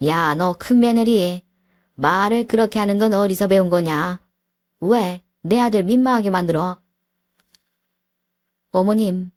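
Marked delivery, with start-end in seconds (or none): 0.1-6.8 scolding mother-in-law. Acted. Mother-in-law scolds her eldest daughter-in-law, stern and sharp.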